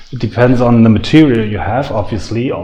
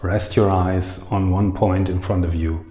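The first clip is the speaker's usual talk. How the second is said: guided meditation; 4 semitones lower, 6 dB quieter than usual. Real, not acted. Teacher settling viewers before the meditation starts, calm guiding voice. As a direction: ease them into stillness, quietly and unhurried.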